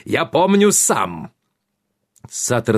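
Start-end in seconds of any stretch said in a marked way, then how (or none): 0.1-1.3 slow, heavy royal boom; booming warrior king. A narrator's reading. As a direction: thunder it out, slow and firm. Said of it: "проревел король".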